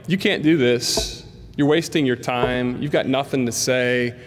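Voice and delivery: a hint of a menacing dark presence; dark inner voice. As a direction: let the darkness taunt him. Dark voice of oppression.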